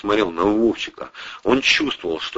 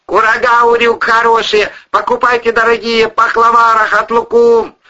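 put-on loud, high hawker's call with Asian accent; strong Asian accent; 7 dB louder than usual. A narrator's reading. Monster outside selling dried fruit, strong Asian accent. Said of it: "голос с сильным азиатским акцентом".

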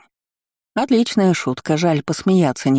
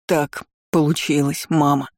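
spat-out words. Acted. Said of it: "выплёвывая слова".

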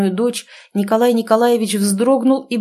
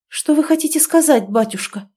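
higher, strained anxious asking; nervous pressing question; tense question; 7 semitones higher than usual. A narrator's reading. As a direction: dread what he will answer. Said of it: "напряжённо спросила".

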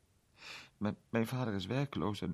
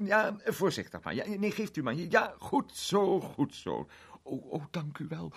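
put-on higher, fretful little girl; anxious girl; 8 semitones higher, 3 dB louder than usual. A narrator's reading. Girl watching Mr Egg climb for her cat, higher and fretful. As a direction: hover anxiously over the rescue, voice raised.

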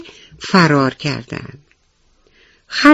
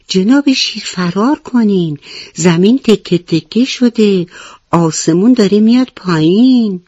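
higher, fearful plea; trembling elephant; 4 semitones higher than usual. Acted. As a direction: beg the lion to run, scared. (فیل ترسیده با لحن لرزان)

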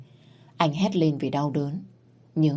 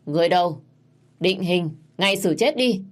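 commanding order; 3 semitones higher, 4 dB louder than usual. Acted. Prince orders the execution.

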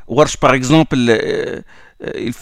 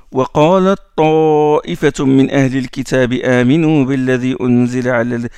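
brisk tajwid recitation; Quran recitation; 2 semitones lower, faster than usual. Acted. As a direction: recite the verse for the class. Recites verse from Al Imran.

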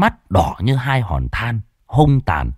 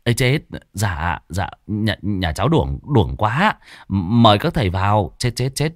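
flustered stammer. Acted. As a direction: trip over the words, embarrassed. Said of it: "Chủ nhà vội nói". (lắp bắp bối rối, nói nhỏ)

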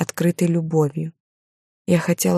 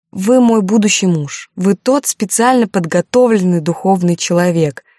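tearful; 2 semitones higher, 4 dB louder than usual. Acted. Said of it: "не сдерживая слёз".

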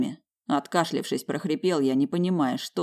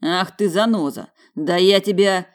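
sputtering anger; 4 semitones higher, 5 dB louder than usual. Acted.

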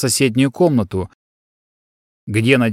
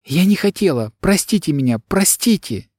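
higher, pitiful begging; plaintive pleading; 6 semitones higher than usual. Acted. Girl begs forgiveness while leaving, plaintive plea. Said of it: "жалобно повторяла девушка".

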